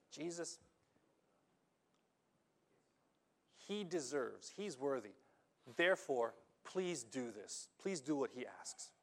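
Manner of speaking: hushed, earnest request; lightly voiced elders asking Jesus; softly voiced elders' plea. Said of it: "the elders are saying".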